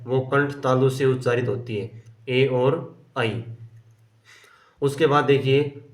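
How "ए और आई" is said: slow spelled-out vowels. Shown as a demonstration. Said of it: "teacher spelling out vowels slowly".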